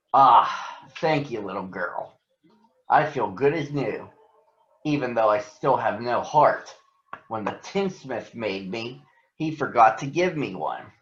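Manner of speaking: a lightly voiced grateful tin man; a hint of a creaky tin man, relieved; gentle Tin Woodman. Tin Woodman speaks after oiling.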